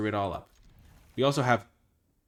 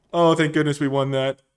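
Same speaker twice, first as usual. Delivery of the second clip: loud, high shout of relief; excited relief; 4 semitones higher, 10 dB louder than usual. Real, not acted. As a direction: yell it out, laughing with relief. Shouted relief after win.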